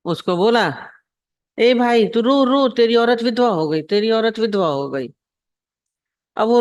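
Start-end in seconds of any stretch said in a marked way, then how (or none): 1.6-5.1 mocking tease. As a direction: egg him on like a pack of teasing boys. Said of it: "छेड़ने के चक्कर में".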